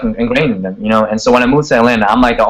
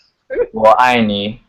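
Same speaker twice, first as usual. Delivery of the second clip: slow, measured Chinese phrase; much slower than usual. Shown as a demonstration. Guest repeating I love you for the host, slowly. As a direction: say it slowly for the camera. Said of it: "Come closer to the camera and say it slow".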